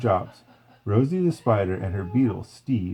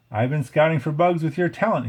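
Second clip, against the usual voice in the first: eager pitch; 6 semitones higher than usual. A narrator's reading. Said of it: "he told them".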